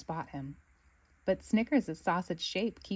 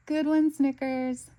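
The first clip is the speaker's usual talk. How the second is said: cheering shout; 6 semitones higher, 4 dB louder, slower than usual. Acted. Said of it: "Bluey and Winton shout".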